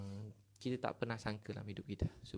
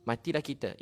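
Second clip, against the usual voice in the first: retold panic; 6 dB louder than usual. The preacher voices the crowd sure they will die, loud despairing cry. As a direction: cry out Matilah kita as if doomed. Musa's people panic before sea.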